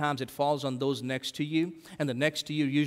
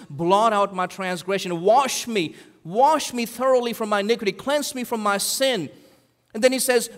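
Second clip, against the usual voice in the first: raised, earnest plea to God; pleading prayer; 4 semitones higher than usual. Retold or imitated. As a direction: pray it like a broken man begging. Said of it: "David prays".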